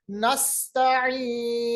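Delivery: "नस्तईन" recited slowly with a sharp s; sharp whistling seen. Shown as a demonstration. Teacher showing safeer in "नस्तईन", sharp s. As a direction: whistle the s of "नस्तईन", then hold the long ee. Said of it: "दांत के बीच में से तेज निकलती है".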